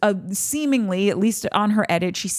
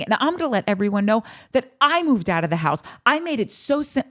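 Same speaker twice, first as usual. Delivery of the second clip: heated takedown; 2 semitones higher than usual. Retold or imitated. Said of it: "one day you're like".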